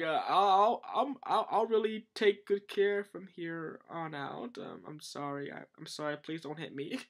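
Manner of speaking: put-on timid backpedalling; mock cowed apology. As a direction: plead meekly after a scolding. Voicing the scolded king, cowed.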